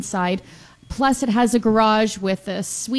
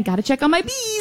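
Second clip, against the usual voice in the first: quoting herself; 7 semitones higher than usual. Retold or imitated. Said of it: "I keep saying".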